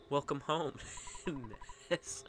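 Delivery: gentle mom voice with a lisp. Acted. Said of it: "I don't know where the lisp came from".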